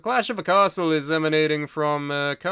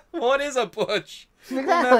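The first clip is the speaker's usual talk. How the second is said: 1 mock clueless voice; 10 semitones higher, 6 dB louder than usual. Mocking wrestling jargon.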